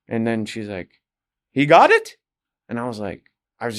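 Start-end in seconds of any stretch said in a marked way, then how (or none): 1.5-2.2 put-on high, loud Russian-accented exclamation; retold excited manager, Russian accent; bad Russian accent. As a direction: imitate her with a rough Russian accent. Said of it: "trying to do her bad Russian accent".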